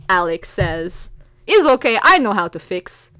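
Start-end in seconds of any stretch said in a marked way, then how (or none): 1.5-3.1 put-on louder, confident Russian accent. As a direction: promise to fix it in a Russian accent. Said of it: "read this with the accent".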